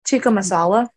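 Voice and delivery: talking while eating; mouth full. Real, not acted. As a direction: say it through a bite of food. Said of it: "I'm also eating dinner while we're doing this".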